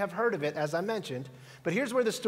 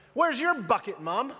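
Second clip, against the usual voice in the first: put-on high innocent little boy's voice; child's question; 4 semitones higher than usual. Son asks his mom in the checkout line, high and innocent. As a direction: blurt it out like a curious toddler. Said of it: "He goes".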